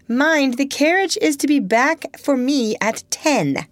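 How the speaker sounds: high, carrying reminder; calling out. A narrator's reading. Lady to departing aunt from the doorstep, calling out. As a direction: call it after someone leaving. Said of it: "called from the doorstep".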